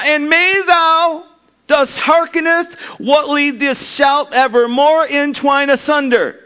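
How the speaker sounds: high, slow, booming mock-solemn chant; loud pompous monotone. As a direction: thunder it out like a grand proclamation. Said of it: "in a loud monotone".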